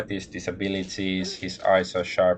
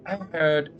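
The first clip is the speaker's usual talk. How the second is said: businesslike; 10 semitones higher than usual. Acted. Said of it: "The tone changes, becomes more businesslike".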